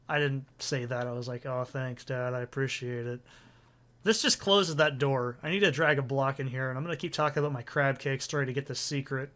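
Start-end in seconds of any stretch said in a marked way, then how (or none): 1.5-3.2 low, soft, humble reply; modest retold thanks. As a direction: quietly thank a dad for his praise. Corrected, modest reply to dad.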